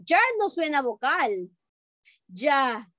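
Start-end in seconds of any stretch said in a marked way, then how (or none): 2.3-2.9 "Ya" as a demonstrated j-like double L; double-L sound. Shown as a demonstration. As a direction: say just "Ya" with a firm Spanish ll onset, like "jah". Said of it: "Suena como doble L".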